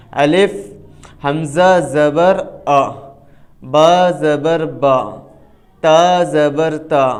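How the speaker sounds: slow, measured spelling drill with each letter on its own; letter-by-letter hijje. Shown as a demonstration. Teacher showing students how to spell each letter with zabar, slow measured hijje. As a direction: spell it out slowly, letter, vowel name, sound. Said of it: "ہر حرف کو الگ سے پڑھا ہے".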